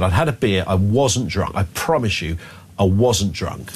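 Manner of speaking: ordinary talk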